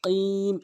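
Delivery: "কিম" with back-of-tongue q, drawn out; correct QAF. Shown as a demonstration. Teacher confirms the right way, "কিম" with q. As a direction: hit "কিম" from the tongue root. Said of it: "এভাবে বলতে হবে".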